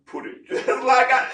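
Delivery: Pilate's retort, broken by a laugh; laughing through Pilate's reply. Retold or imitated. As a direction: laughs mid-quote. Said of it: "He like".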